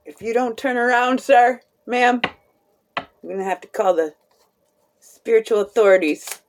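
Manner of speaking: lightly voiced officer giving a warning; mock law officer. Warning someone to turn around, lightly voiced mock officer. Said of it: "sound like an officer of the law".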